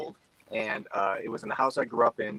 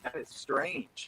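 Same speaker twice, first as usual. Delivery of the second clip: choppy glitchy audio; bad connection; 12 semitones higher, 8 dB quieter, much slower than usual. Real, not acted. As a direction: voice breaking up online. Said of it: "they're choppy on our end, too".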